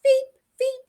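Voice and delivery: high, far-off creature whimper; a stuck little creature crying for help, high and sad; sad whining beep. Acted. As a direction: whine it like a lost little beast. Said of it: "whining sadly".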